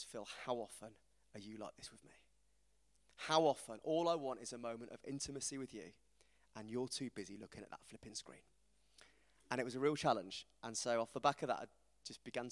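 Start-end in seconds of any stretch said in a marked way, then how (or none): 0.0-8.4 soft, low, tender rebuke; gentle voice of God. Retold or imitated. God gently challenging Phil about his screen, soft and tender. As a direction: quietly call him back to closeness. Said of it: "And he says".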